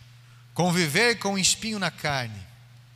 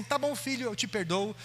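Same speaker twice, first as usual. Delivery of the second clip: a lightly voiced, easy-going mother forgiving; high and breezy, forgiveness given too easily; 7 semitones higher than usual. Mother lets her son off lightly, breezy and high. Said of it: "O perdão do homem é assim".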